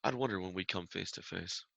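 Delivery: hushed words to one player; lightly suggested whisper; whispered villain line. Acted. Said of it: "He whispers".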